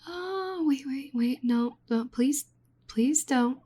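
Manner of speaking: high, rising panicked begging; frantic pleading. Acted. Researcher pleading with the adventurer to stop, panicked. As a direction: plead desperately for them to stop. Begs character not to act.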